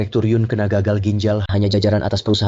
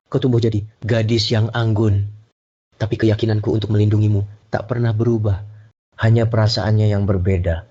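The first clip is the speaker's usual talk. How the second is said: theatrical letter reading. Acted. Rival reading the director's love letter to the crowd, mock tender. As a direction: read it out like a sappy poem, savouring it.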